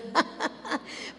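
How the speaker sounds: quick airy laugh under the breath; a little breathy chuckle; soft breathy laugh. Real, not acted. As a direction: let a short unvoiced laugh slip out. Laughing at own story.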